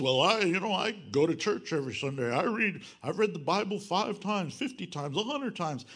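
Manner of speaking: boastful churchgoer. Retold or imitated. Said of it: "So you wanna boast?".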